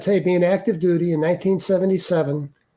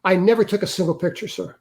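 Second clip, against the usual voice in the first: quick, unthinking denial to a superior; hasty retold protest; retold blurting. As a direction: blurt it out in one rush, lightly acted. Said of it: "I blurted out, without thinking".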